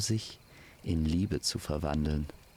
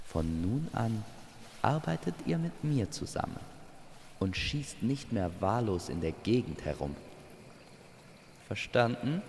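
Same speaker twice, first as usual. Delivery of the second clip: stern guardian. Acted. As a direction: lay down the rules from above. Figure lays down terms to Amor.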